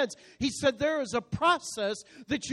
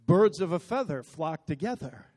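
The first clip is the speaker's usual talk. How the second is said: lower-pitched, lightly voiced mother; mother's saying; 5 semitones lower than usual. Preacher quotes his mother's warning about company, lightly imitated. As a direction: quote it like a mother's pointed proverb. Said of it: "My mother used to say it like this".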